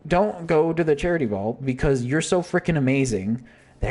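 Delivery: gushing, fond teasing; playful admiring warning; admiring Sylvia. Retold or imitated. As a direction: say it like they're too amazing. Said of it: "what it's most likely being".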